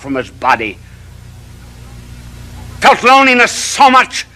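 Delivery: rising from measured to soaring; preacher building to a climax; building sermon. Acted. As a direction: climb toward the triumphant close.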